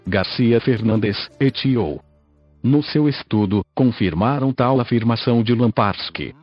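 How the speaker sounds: robotic text-to-speech voice. Real, not acted. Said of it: "falo através desta voz sintetizada".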